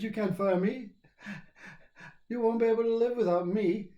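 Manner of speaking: the ego pleads not to be fired; ego's voice. Retold or imitated. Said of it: "He said".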